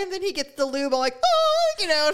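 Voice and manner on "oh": high, loud, hammed-up "oh"; mock alarm. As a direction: yelp it in exaggerated dread. Acting out reaction to the lube.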